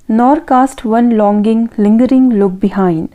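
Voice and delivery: reads the line out very slowly; slow, deliberate reading of a verse line; slow recitation. Acted. Teacher reading a question line to students, slowly.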